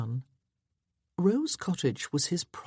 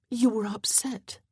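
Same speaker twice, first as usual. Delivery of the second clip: whispered; 7 semitones higher than usual. A narrator's reading. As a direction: breathe it gently. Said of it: "quiet reply to him".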